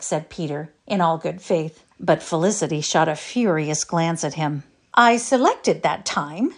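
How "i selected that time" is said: dignified. A narrator's reading. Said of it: "she explained with dignity".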